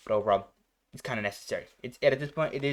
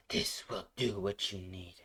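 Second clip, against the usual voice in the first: tired; 3 semitones lower, 7 dB quieter, slower than usual. Retold or imitated. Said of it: "The emotion is like".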